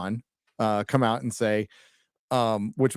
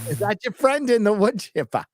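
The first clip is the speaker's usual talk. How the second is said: put-on Minnesota accent; 8 semitones higher than usual. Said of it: "I can't do a Wisconsin accent".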